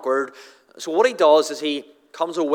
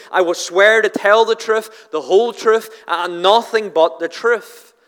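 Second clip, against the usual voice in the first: raised, emphatic mock oath; lightly acted witness being sworn in, slowing at the end; courtroom oath; 4 semitones higher, 3 dB louder than usual. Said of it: "it's what you would do in court".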